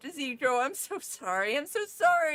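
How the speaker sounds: high, tearful pleading sorry; crying apology. Acted. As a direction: sob it out while hugging a friend. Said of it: "I just cry".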